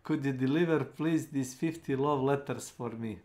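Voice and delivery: squeaky sweet anime character voice; anime girl voice. Acted. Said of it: "with her anime voice like".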